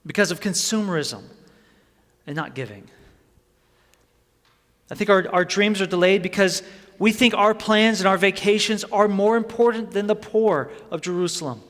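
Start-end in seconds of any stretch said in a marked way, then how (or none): 4.9-11.6 forceful preaching. Acted.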